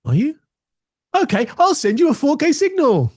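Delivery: high, obliging machine voice; computer voice. Pretend. Computer agrees to the monitor, high playful voice. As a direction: answer like an eager computer.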